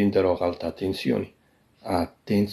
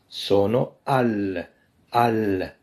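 slow demo; much slower than usual. Shown as a demonstration. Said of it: "لاحظوا كيفاش غتغير".

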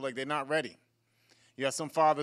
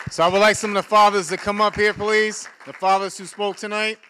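higher, louder call to the room; calling out loudly; 5 semitones higher, 10 dB louder than usual. Real, not acted. Host calling the fathers onto the stage, loud and high. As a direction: summon the fathers up front.

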